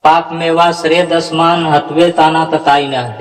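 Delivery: mock wrong reading पाप मेवा श्रेय दसमान; wrong recitation. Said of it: "ऐसा उच्चारण होता है?".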